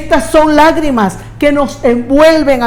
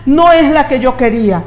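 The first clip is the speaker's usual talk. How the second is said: mock whiny prayer; 3 semitones higher, faster than usual. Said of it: "pero no porque quiere una casa".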